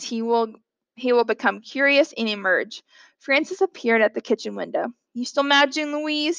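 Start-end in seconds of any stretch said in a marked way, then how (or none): 5.1-6.4 higher, cautious asking; tentative question. Acted. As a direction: test the waters gingerly. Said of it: "he asked tentatively".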